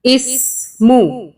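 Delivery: जेर सीन इस read slowly, blending the letter sounds into इस; slow joining demo. Shown as a demonstration. Teacher blending letters slowly for learners. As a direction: slowly join the sounds for a beginner. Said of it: "मीम पेश मुंह".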